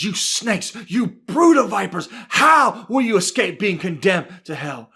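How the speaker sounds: acted rebuke building in force; preacher's heated telling-off; scolding. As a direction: punch out the insults as accusations. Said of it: "Jesus scolding these Pharisees".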